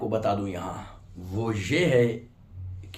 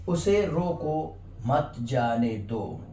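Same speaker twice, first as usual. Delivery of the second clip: slow neutral reading; much slower than usual. Shown as a demonstration. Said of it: "इनमें कोई भी difference नहीं है".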